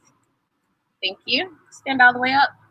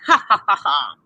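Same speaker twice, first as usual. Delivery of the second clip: laughing; 4 semitones lower than usual. Acted. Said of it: "Doctor Stevens laughed".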